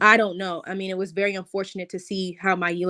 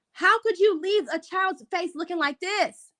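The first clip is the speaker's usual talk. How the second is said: heartbroken plea; 8 semitones higher than usual. Real, not acted. Heartbroken over the crying teen.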